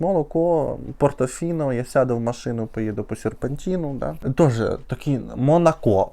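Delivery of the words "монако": "Монако" stressed on the final O; stress on last syllable. Retold or imitated. Quoting the singer's lyric, "Монако" with final-syllable stress. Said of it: "взагалі-то Монако, я звиняюсь".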